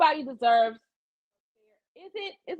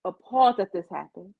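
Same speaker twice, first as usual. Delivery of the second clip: remorseful; 5 semitones lower than usual. Shown as a demonstration. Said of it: "What you do is you say".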